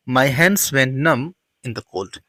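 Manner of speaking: very slow, deliberate model sentence. Shown as a demonstration. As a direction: spell it out word by word for learners. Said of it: "Go went कौन". (बहुत धीमे, साफ़ बोला गया पूरा वाक्य)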